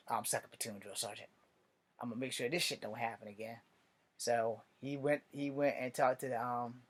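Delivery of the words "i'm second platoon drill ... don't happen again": much softer, weary answer; understated tired reply; exhausted murmur. Retold or imitated. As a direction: sound worn out.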